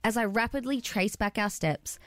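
reading a story aloud. Acted. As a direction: read it like a storybook. Reads a story aloud on air.

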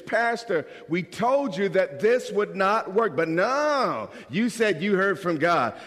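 lightly mock whine at the pastor; a touch of I-told-you-so grumbling; complaining church member.

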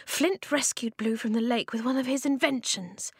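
high-pitched, slightly shaky explanation. A narrator's reading. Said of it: "she said shakily".

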